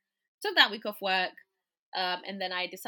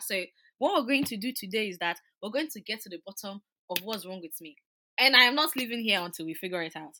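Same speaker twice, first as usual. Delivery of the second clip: guns blazing; 3 semitones higher, 8 dB louder than usual. Retold or imitated. Patient confronting the GP, loud and forceful. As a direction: lay down the law to the doctor. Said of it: "I went in, like, guns blazing".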